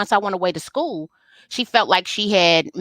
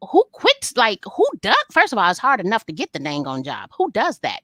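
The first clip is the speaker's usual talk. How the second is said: incredulous; 3 semitones higher than usual. Retold or imitated. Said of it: "I'm like".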